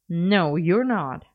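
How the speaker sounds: slow, firm refusal; won't hear any argument; stubborn. Acted. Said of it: "Merlin said stubbornly".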